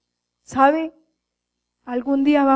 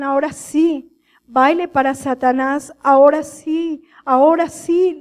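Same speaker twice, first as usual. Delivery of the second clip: demon taunting. Retold or imitated. Demons taunt dancers in hell.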